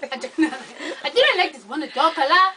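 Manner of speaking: amused mock African accent; African accent imitation. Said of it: "but his accent".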